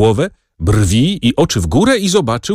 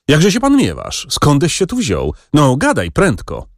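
cheerful call; 6 semitones higher than usual. Acted. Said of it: "zawołał Rzecki, wesoło".

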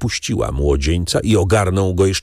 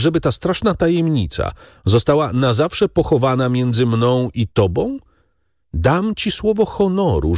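higher, earnest, rising to a vow; noble friend's pledge; 7 semitones higher than usual. Acted. Beauchamp promises Albert eternal silence, earnest. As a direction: offer your honour with feeling.

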